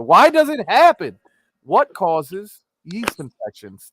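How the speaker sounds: dramatic TV promo read; news teaser voice. Pretend.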